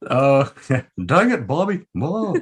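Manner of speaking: a quick, playful hint of an exasperated cartoon dad; Hank Hill. Friend asks for his Hank Hill impression, a hint of the exasperated dad. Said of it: "your Hank Hill impersonation".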